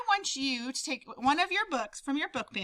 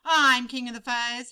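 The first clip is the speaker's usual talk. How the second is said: snarled; 6 dB louder than usual. Acted. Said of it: "he snarled".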